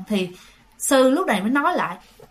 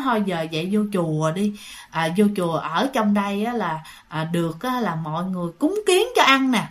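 soft coaxing; 2 semitones lower than usual. Retold or imitated. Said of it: "mọi người xúm lại năn nỉ".

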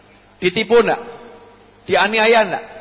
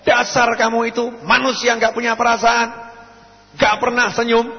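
higher-pitched mock tirade; abusive scolding; 5 semitones higher than usual. Preacher acting a person who insults someone in public, scolding. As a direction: scold someone harshly, as an act. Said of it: "Ada orang mencaci".

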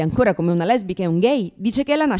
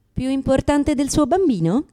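slow, reproachful, higher; guilt-trip the mother slowly; mock scolding nurse; judgmental; 6 semitones higher, slower than usual.

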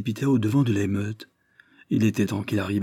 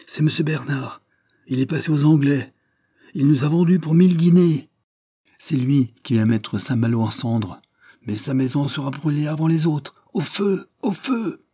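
rising higher and louder with rage; furious accusation; 6 semitones higher, 5 dB louder than usual. A narrator's reading. Fisherman accusing Bernard to René, rising into furious cries. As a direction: spit out the accusation, ending in cries.

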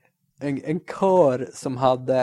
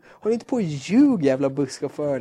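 mock scolding; 4 dB louder than usual. Scolding the lying bus driver.

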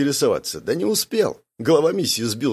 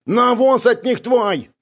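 higher, louder and slow barked line; barked retort; 11 semitones higher, 5 dB louder, slower than usual. A narrator's reading. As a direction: snap back at him. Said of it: "рявкнул Бяка". (рявкнуть, выше, громче и медленно)

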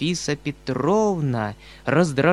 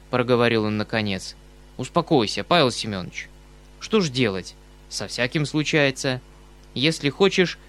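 lightly voiced kindly uncle; 3 semitones lower than usual. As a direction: soothe him gently. Uncle calms embarrassed young man.

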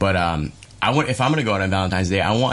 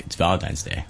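lightly lowered, smooth romantic tone; a deep soul singer's voice; 2 semitones lower, 4 dB quieter than usual. Retold or imitated. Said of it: "soul singer voice on".

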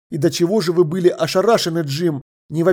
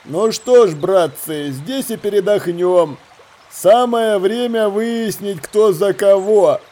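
slow, drawn-out pirate leader addressing his men; lightly voiced ringleader taking charge, slowly; 2 semitones higher, slower than usual.

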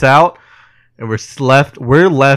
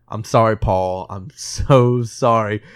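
sorrowful apology; 2 semitones lower, 3 dB quieter, slower than usual. Retold or imitated. Retelling the soldier apologizing to Paul, sorrowful. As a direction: let the apology drag out gently.

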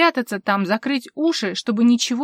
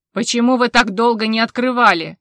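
loud shouting demand from the dark; 8 dB louder than usual. A narrator's reading. Officer yelling at the woman from the darkness, loud. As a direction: yell it down at her. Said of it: "кричал на неё".

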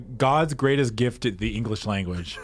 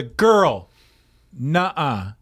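put-on punchy "Girl," then a flat "nuh-uh"; sassy refusal; 3 dB louder, much slower than usual. Co-host quoting Bianca's sassy line, louder on "Girl". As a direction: shut her down with attitude. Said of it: "the one that made me laugh".

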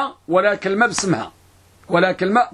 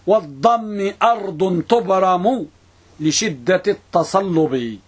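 measured didactic verse with drawn-out endings; verse recitation; slower than usual. Real, not acted. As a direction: recite the rhyme slowly, line by line.

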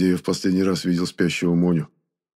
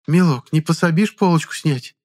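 coaxing; 9 semitones higher, 5 dB louder than usual. Acted. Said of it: "ласковым голосом спросила женщина".

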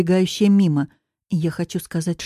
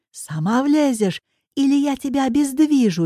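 higher, strained angry threat; roaring threat; 7 semitones higher than usual. A narrator's reading. Coach forcing her into the car, angry roar. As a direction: bellow it as a threat, pitched up. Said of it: "ревёт он".

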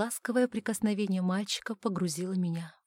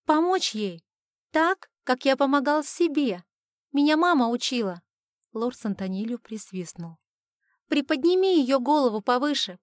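put-on higher, louder boyish voice; boy's voice; 5 semitones higher, 7 dB louder than usual. Boy telling his father he can save her, higher boyish voice. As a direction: play an eager young boy. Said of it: "высокий мальчишеский голос".

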